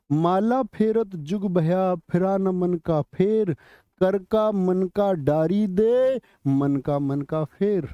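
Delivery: slow, measured couplet with held line endings; verse recitation. Acted. Teacher reciting an often-asked exam couplet, slow recitation. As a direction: recite it line by line, stretching the vowels.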